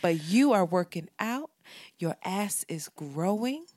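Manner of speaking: lightly spoofed affirmation voice; mock affirmations. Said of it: "make hood rat affirmations".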